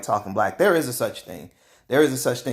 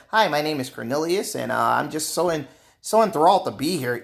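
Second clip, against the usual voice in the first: lightly put-on proper, overly polite voice; a mild mock of a stiff, eager office voice; talking white demo; 3 semitones higher than usual. Shown as a demonstration. The speaker showing co-workers the voice he won't use, lightly proper. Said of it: "how I talk is how I'm not saying".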